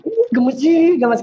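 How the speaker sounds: mock annoyed. Shown as a demonstration. Doctor imitating herself grumbling at her husband, mock annoyed. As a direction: play it as petty mock irritation, not real anger.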